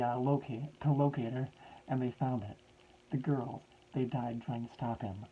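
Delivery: a hint of a desperate professor breaking bad news; professor's voice. Professor voice continues.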